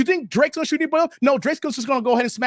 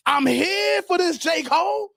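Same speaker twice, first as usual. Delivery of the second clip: hyped repeat; 5 semitones higher than usual. Retold or imitated. Repeats louder, building hype.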